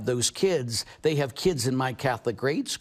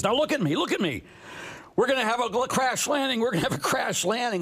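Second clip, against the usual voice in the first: higher, urgent stewardess warning; imitating stewardess; 10 semitones higher than usual. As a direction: mimic the flight attendant calling out. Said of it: "and she says".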